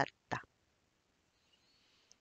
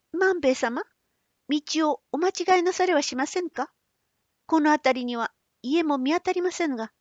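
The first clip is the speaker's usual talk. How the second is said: put-on high, uneasy young woman; 6 semitones higher than usual. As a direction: ask anxiously as a young girl. Otsu worried asks.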